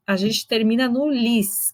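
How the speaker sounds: lis held and lightly stressed; slow with weight on "lis". Shown as a demonstration. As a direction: land on "lis" as the last stressed syllable. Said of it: "que é a última sílaba tônica".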